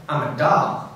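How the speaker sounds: lightly imitating an American woman; American accent. Dahl relative explaining her job to Charlie, in a mild American accent. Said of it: "That's my American accent".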